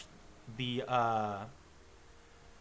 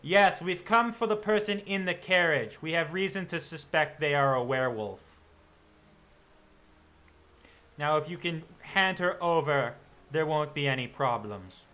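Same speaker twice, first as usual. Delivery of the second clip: stern hunter; 3 semitones higher, 5 dB louder than usual. Acted. Hunter demands the girl.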